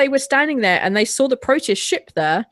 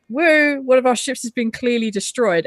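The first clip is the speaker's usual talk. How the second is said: mock cheer at bad news; happy, excited; 3 semitones higher than usual. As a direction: imitate misplaced celebration. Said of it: "they get really happy and excited".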